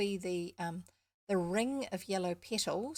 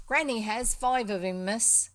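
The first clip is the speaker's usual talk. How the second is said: put-on louder rural Somerset farm boy; proud country lad with a light Somerset accent; slight Somerset accent; 3 semitones higher, 9 dB louder than usual. Farm boy tells the young miss about the litter, slight Somerset accent. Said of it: "I think it's slightly Somerset".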